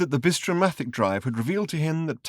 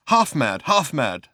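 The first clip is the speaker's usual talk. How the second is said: half-mad man insisting, a little louder; raving journalist; 2 semitones higher, 4 dB louder, slower than usual. Acted. Raving journalist insists as he's carried aboard, a touch louder. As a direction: insist it over and over like a madman.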